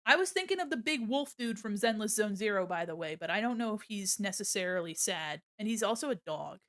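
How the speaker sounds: usual speaking voice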